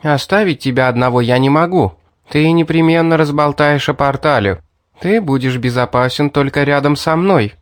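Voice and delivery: a hint of a sly girl persuading; girl coaxing him down from the ledge, lightly voiced; Mary voiced lightly.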